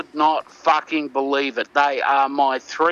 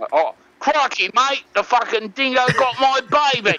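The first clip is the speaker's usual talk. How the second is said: higher, fast excited croc-hunter voice; Steve Irwin impression; 7 semitones higher than usual. Retrying Steve Irwin after a wrong take, excited impression. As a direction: crank up the Aussie wildlife host. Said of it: "no, wrong".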